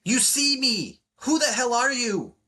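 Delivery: very high, loud, panicked mock woman; hammed-up scared disbelief; a woman rattled at being seen; terrified woman. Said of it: "'Cause she's terrified".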